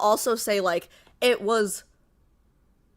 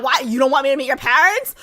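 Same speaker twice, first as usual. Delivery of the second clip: mock yelling; 4 semitones higher, 7 dB louder, faster than usual. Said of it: "lightheaded right there screaming".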